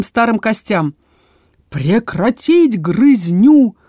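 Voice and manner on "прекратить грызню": ringing command. Acted. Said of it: "пронеслось по залу".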